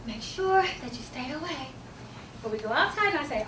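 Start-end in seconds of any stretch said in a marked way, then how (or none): 0.1-1.7 slow warning. Acted. Rule repeated more slowly.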